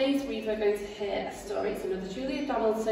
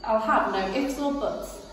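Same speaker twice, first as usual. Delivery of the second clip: a touch of a snarling robber; mild snarl; 3 semitones higher, 5 dB louder, slower than usual. Acted. Rat snatching the squirrel's nuts, snarling. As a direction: growl it out greedily.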